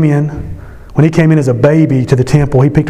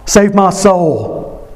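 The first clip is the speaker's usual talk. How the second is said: thief pleading; 2 semitones higher than usual. Retold or imitated. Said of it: "He's saying".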